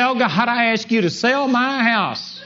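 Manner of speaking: mock a begging prayer, drawn out; pleading prayer. Believer begging God to sell the house, pleading slowly. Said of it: "Some people pray and say".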